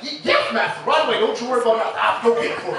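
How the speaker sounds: servile slave mode. Retold or imitated. To his black friends asking for beer, mock servile and eager. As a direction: play it overly obedient and eager to please. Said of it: "I get right to slave mode".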